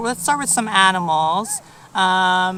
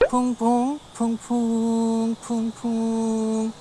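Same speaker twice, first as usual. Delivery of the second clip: Korean bee buzz; much slower than usual. Shown as a demonstration. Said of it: "we hear".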